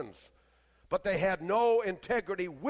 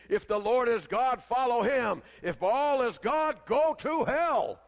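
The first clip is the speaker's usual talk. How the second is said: rising, slowing into the punchline; preacher's climax; 3 semitones higher, 3 dB louder, slower than usual. Retold or imitated. Retelling the Scottish preacher's fiery close. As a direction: build to go to hell, slow and high. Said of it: "when he said this, he said".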